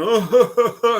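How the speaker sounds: a high, loud laughing "oh". Retold or imitated. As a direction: let the laugh carry the word up high. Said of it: "he stands up and he's laughing".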